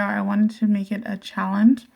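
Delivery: talking while chewing gum; words round a piece of gum. Real, not acted. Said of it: "I do have gum in my mouth".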